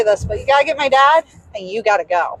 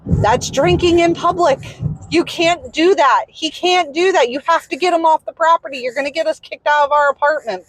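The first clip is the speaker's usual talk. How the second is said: raised, heated scolding, faster at the end; retelling the husband's angry outburst; husband losing it; 5 semitones higher than usual. Retold or imitated. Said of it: "kinda lost it".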